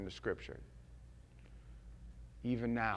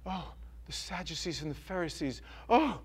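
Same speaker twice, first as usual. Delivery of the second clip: mock dismay; 5 semitones higher, 10 dB louder than usual. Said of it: "they're gonna go".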